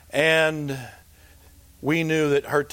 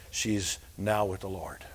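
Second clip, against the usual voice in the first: whisper; 6 semitones lower, 8 dB quieter than usual. Retold or imitated. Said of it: "her oldest boy called and said".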